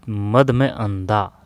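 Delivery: मद में अंधा split slowly into parts; slow breakdown. Shown as a demonstration. Teacher slowly breaks down मदांध for students, drawn out. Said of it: "splitting मदांध slowly".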